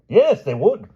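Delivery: high, loud shrill-free shout of yes; king insisting in a marital spat; angry insistence. Acted. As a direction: hammer it home. Quarrel between king and queen.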